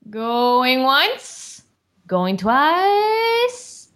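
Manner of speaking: drawn-out auctioneer, slow final sold; auctioneer call. Acted. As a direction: close the sale like an auctioneer. Auctioneer closing sale.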